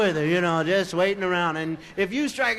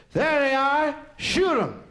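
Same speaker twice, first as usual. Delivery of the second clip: gang shout; 6 semitones higher, 4 dB louder, slower than usual. Retold or imitated. Gang spotting them.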